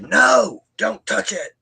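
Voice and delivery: sharp high shout of alarm, imitating her; retold scream. Psychic screaming at client not to touch card, high alarmed shout. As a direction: snap it out high and loud like a startled warning. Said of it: "She screamed at me".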